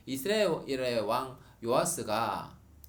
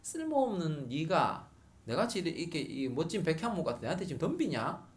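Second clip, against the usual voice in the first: mocking sneer; 3 semitones higher than usual. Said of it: "조롱하는 거예요".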